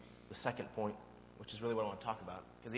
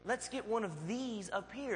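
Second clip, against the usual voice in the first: patient dad; 11 semitones higher than usual. Retold or imitated. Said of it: "And I'm patient".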